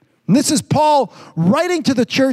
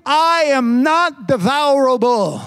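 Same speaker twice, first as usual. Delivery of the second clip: defiant retort. Pretend. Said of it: "Let him say".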